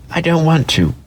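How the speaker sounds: high, small toy-rabbit voice; a shy little rabbit brushing it off. A narrator's reading. Toy rabbit refusing to play, high and small.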